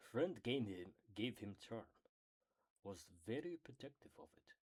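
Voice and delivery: almost-there cartoon creature impression; attempted character voice. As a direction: try a little creature's broken speech. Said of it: "I think I did almost the voice".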